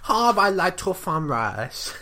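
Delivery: slow, put-on Chinese accent; hammed-up imitation of a Chinese accent; mock Chinese accent. Co-host ribbing the reader, mock Chinese accent. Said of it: "Do you want to just do it in a Chinese accent".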